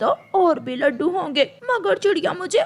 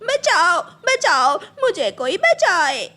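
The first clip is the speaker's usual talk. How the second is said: crying for help; 3 semitones higher than usual. Acted. Crow still burning, calling out.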